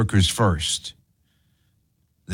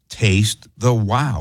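Taste the wow stretched slowly, each word given weight; slogan, drawn out slowly; much slower than usual. Shown as a demonstration. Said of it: "as I like to say".

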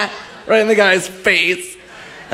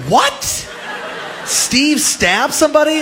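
shocked disbelief; 10 semitones higher, slower than usual. Retold or imitated. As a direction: squeal it like friends who just heard a stabbing. Friends reacting to the lie.

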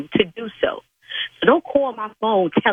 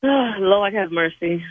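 weary sigh; much slower than usual. Real, not acted. Sighing relief.

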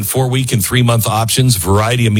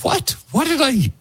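mock surprise; 13 semitones higher, 4 dB quieter than usual. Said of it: "And I'm like".

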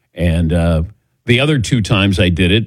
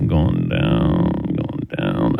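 laughing, sinking much lower and softer; fading mock faint; 6 dB quieter, much slower than usual. Host acting out fainting on his kitchen floor, fading away. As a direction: let the voice sink and fade like falling over. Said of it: "the leaning tower of the host".

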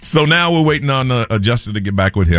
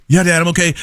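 lightly voiced son, higher pitch; son on phone; 8 semitones higher than usual. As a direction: imitate a son answering his dad, higher. Dad voices his son on phone.

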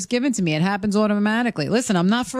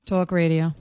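lower, restrained New York accent; toned-down New York accent; 7 semitones lower, slower than usual. Shown as a demonstration. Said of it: "she toned that one down".

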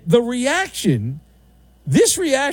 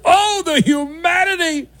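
mock newsreel anguish; 10 semitones higher than usual. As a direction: wail it like the Hindenburg broadcast. Mock tragic exclamation.

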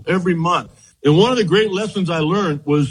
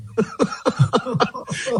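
breathy laugh; 5 semitones higher, 5 dB quieter than usual. Real, not acted. Recalling the Sandberg game overshadowing him.

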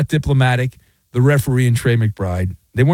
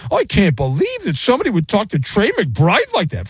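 mocking whiny outrage; 5 semitones higher than usual. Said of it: "dumb people are up in arms".

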